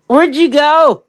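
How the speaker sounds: high, goofy voice of the husband staring at his son; mocking husband's voice. To her friends, mimicking her husband staring at the baby, high and silly. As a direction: play the jealous husband, hammed up.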